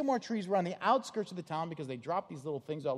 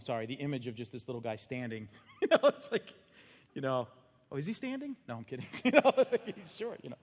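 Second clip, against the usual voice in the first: 1 laughing; 3 semitones lower than usual. Real, not acted. Preacher laughing at short man.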